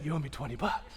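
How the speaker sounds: soft hushed aside; whispered payoff claim. Retold or imitated. Pastor whispers to the crying groom that he won. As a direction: lean in and whisper the win. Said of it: "I just lean over and I say".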